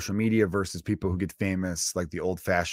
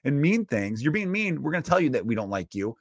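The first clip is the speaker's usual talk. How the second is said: put-on scolding a rude kid, higher and slowed; mock scolding; 8 semitones higher, 3 dB louder than usual. People telling a mean kid off, mock scolding. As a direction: lecture him, a touch higher. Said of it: "You should be like".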